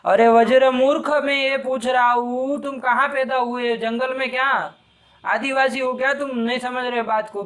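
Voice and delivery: exasperated teacher berating a pupil; scolding a student. Real, not acted. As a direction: tear into the student who keeps getting it wrong.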